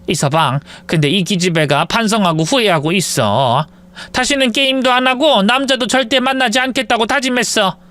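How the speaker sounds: lightly voiced older mother-in-law, pleading; a hint of an old mother asking forgiveness for her daughter.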